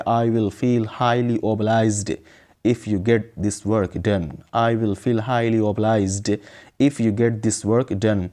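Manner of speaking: very slow, deliberate English for learners; slow model sentence. Shown as a demonstration. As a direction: model the sentence slowly, word by word. Teacher models the English sentence slowly. (سبق کے لیے ٹھہر ٹھہر کر)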